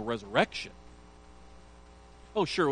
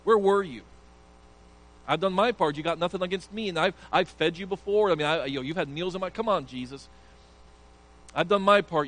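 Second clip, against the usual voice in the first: aggrieved Mary; 2 semitones higher, 5 dB louder than usual. Acted. Preacher voices Mary's grievance.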